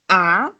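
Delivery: A rising sharply; second tone. Shown as a demonstration. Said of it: "the second tone is going to be".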